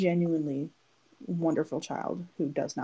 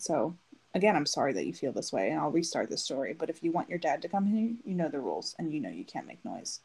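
calm level tone. Retold or imitated. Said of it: "just keeping a level tone".

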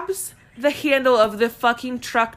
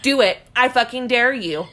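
laughing taunt; 4 semitones higher, 4 dB louder than usual. Retold or imitated. Quoting drunk friend's taunt.

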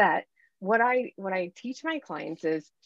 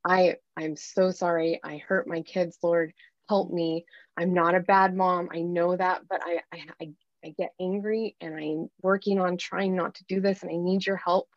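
confessional prayer; 2 semitones lower than usual. Acted. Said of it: "you're confessing and you're repenting".

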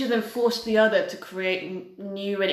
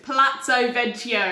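English accent; 4 semitones higher, 3 dB louder than usual. Shown as a demonstration. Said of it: "Do it in my English accent".

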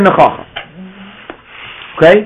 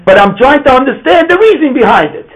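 put-on child asking properly; 5 semitones higher than usual. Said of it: "Instead, we say".

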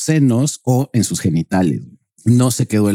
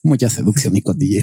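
mock Spanish accent; 3 semitones lower than usual. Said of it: "imitar el acento español".

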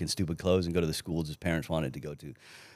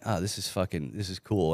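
quiet pleased musing; 5 dB quieter than usual. Retold or imitated. Quoting own quiet thought.

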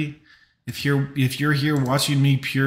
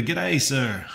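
a light, bad attempt at Australian; terrible Australian accent. Streamer greeting a viewer from Australia, bad Australian accent. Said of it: "that's a terrible accent".

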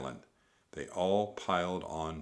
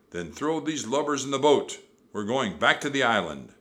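loud, raised pirate command; Captain Bones; 5 semitones higher, 8 dB louder than usual. A narrator's reading. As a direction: bellow orders to the crew. Captain orders his men.

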